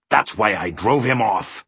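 lightly voiced boastful humbug; blustering cry. A narrator's reading. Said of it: "cried the humbug".

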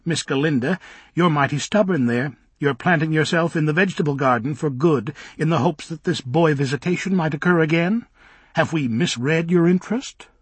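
put-on high, fussy old nanny voice; scolding old nanny. Minder scolding Galinda.

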